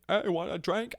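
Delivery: high, upbeat offer; imitated eager friend. People offer him a drink at twenty-one, high eager voice. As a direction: pitch it up like a pushy pal.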